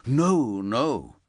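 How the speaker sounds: urgent reassuring no; urgently. A narrator's reading. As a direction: cut him off fast to reassure. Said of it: "Kevin said urgently".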